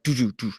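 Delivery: soft little thumping sound, voiced; imitated small noise. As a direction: imitate faint bumps on a truck. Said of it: "he kinda hears a little".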